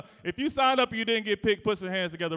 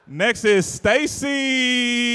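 slow announcement; 4 semitones higher, 7 dB louder, much slower than usual. Acted. Announcing contestant.

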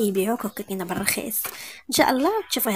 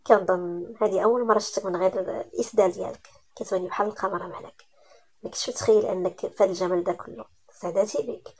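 softer, lower, hushed compliments; tender admiration; 3 semitones lower, 5 dB quieter than usual. Acted. Malik softly admires her without her veil. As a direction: murmur it like a lover.

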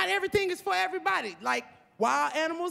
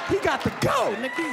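a hint of an upset alligator, shouting higher; mock anguished shouting; 3 semitones higher than usual. Alligator's tearful rant.

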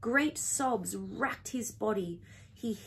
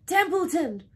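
high, loud yell of a name; frantic high call; screaming; 7 semitones higher, 7 dB louder than usual. A narrator's reading. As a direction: scream to wake someone up. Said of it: "screamed Wilbur".

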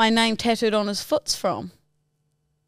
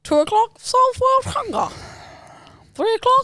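Grinch voice; 5 semitones higher than usual. Retold or imitated. Grinch schedule bit.

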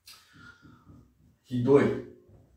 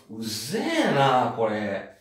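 annoyed; much slower than usual. Retold or imitated. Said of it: "você putazo da vida, você fala".

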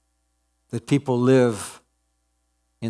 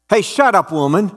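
angry cry; 5 semitones higher than usual. Acted. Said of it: "cried one of the cave dwellers".

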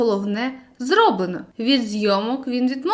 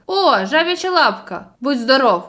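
lively, louder delighted cry; enthusiastic exclamation; 4 dB louder than usual. Acted. Boy answers friend about the talisman, delighted. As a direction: brag about the lucky charm. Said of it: "захоплено вигукнув журавель".

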